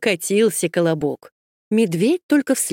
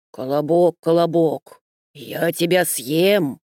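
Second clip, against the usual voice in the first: wolf voice; 3 semitones lower than usual. Acted. The wolf threatens.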